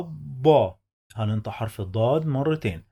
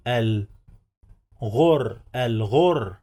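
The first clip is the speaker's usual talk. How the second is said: dictating; slower than usual. Shown as a demonstration. Syllable-by-syllable reading demo.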